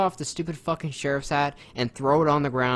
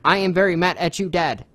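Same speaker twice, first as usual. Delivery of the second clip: louder, higher mock line reading; mock flat acting; 6 semitones higher, 9 dB louder than usual. Mocking the show's writing with a hammy line. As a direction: parody bad dialogue, loud and stiff. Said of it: "more than just".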